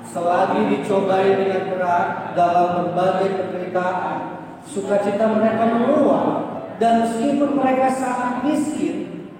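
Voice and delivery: reading the verse aloud with the church; measured unison Bible reading, slowed on key words; scripture reading. Acted. Congregation reads scripture together.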